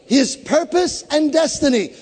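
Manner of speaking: usual speaking voice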